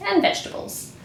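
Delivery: soft whispered aside. Acted. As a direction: whisper it to the puppet. Whispered aside to puppet bee.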